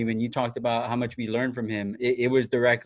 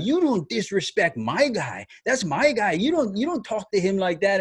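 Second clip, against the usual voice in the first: higher-pitched mock scolding, mildly indignant; retold telling-off; 6 semitones higher than usual. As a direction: act out giving someone an earful for a friend. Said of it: "I gave it to her".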